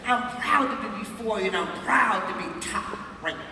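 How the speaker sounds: bouncy, punched motivational rhyme; rhyming stage introduction. Acted. Speaker opens to a crowd with her signature rhyme, rhythmic and proud. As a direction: deliver it like a proud stage chant.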